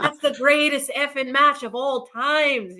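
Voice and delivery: imitating a Scottish fan, laughing at own bad Scottish accent; attempted Scottish accent. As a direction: fumble a Scottish accent while cracking up. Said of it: "I wanna do a Scottish accent".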